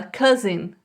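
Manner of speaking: "cousin" with silent U and O sounding like A. Shown as a demonstration. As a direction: model "cousin" as "cázin". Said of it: "Um, um tipo de A que a gente fala". ("cousin" com o O soando como A)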